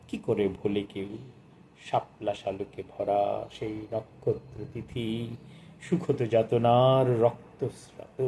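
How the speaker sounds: slow, lingering poetry reading, rising on key lines; poem recitation. Acted. Reviewer reciting the poem Janmasmriti to the audience, slow and lyrical. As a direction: savour each image as you recite.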